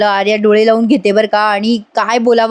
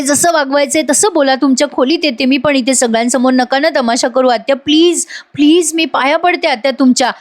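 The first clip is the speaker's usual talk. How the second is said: higher-pitched, lightly acted pleading; pleading Nandini; 4 semitones higher than usual. Nandini begs her aunt not to make a scene, lightly acted pleading. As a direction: imitate someone begging with folded hands. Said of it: "हात जोडते बरं का वसू आत्याला आणि हळूहळू म्हणत असते".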